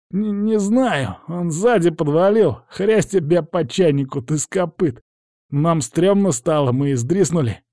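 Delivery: put-on high, whiny young hooligan; questioned lad. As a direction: plead ignorance in a high boyish voice. Boy explains under questioning.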